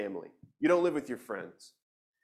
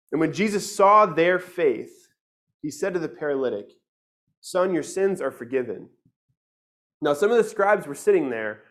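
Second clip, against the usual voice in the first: louder, measured reading of the Gospel; scripture reading; 3 dB louder than usual. Acted. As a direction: read the passage out to the church.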